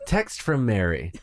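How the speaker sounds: slow flat robot readout; monotone machine announcing a text; robotic voice. Pretend. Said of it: "in a robotic voice saying".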